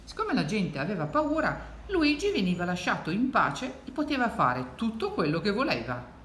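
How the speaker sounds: put-on lilting read-aloud to children; expressive storytelling; story narration. A narrator's reading. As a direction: read it like a picture book, with swoops of pitch. Reads the picture book aloud.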